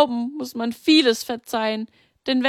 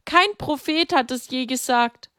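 higher, frantic grieving mother; desperate plea; 8 semitones higher than usual. A narrator's reading. Mary begs the women to help her, desperate and high. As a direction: beg for help as her mind slips. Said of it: "Oh, helft mir".

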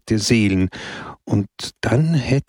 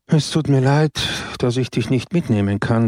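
mild sighing regret; 2 semitones higher than usual. Acted. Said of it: "seufzte Don Camillo".

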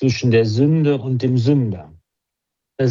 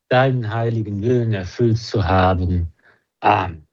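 recited prayer. Acted.

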